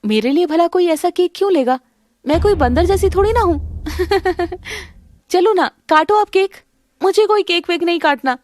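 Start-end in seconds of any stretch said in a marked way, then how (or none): 3.9-4.8 mocking laugh. Mocks Isha after monkey cake.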